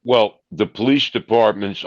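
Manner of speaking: talking with a mouthful; chewing through the words; mouth full. Real, not acted. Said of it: "I'm sorry I'm talking with food in my mouth".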